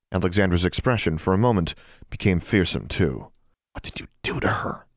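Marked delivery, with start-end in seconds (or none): 3.7-4.9 a sharp, breathy hiss of a whisper; furious hushed hiss. Acted. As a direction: hiss it out in anger under your breath. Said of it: "she hissed".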